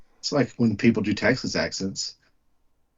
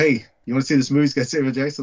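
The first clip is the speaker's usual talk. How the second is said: eager movie pitch; 3 semitones higher, faster than usual. Retold or imitated. A friend pitching a Samuel Jackson film, quick and eager. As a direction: rush the offer with mock excitement. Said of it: "Then they go".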